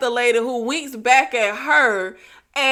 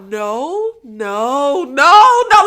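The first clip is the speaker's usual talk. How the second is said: horror movie denial; 3 dB louder, much slower than usual. Retold or imitated. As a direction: build the dread into a yell. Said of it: "that's what Samantha was giving in this scene".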